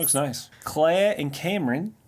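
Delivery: Kiwi accent on the names; New Zealand accent. Shown as a demonstration. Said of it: "That's my New Zealand accent".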